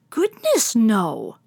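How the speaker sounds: startled loud exclamation; exclaimed. Acted. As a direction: blurt it out in a panic. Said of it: "Muley exclaimed".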